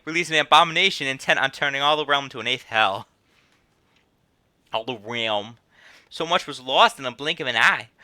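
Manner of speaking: storytelling with a southern twang. Acted. Innkeeper recalls the calamity, southern twang. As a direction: tell the disaster tale in a Southern accent. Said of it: "there's that southern twang".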